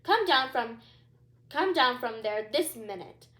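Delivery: loud, stern royal reprimand; queen scolding a misbehaving princess. Acted. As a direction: order her down at once. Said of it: "she began".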